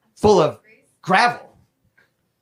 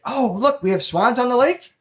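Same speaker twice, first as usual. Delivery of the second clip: high-pitched, rising wife voice; imitated wife; 8 semitones higher than usual. Wife spotting swans at the country club, mimicked in a high voice. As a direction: mimic a wife's delighted discovery up high. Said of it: "my wife walks in there".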